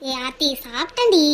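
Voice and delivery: low, downcast protest; voice off, upset. Acted. Friend denying she skipped dinner, low and upset. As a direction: cover hurt with a subdued insistence. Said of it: "உன்னோட குரலே ஒரு மாதிரியா இருக்கு".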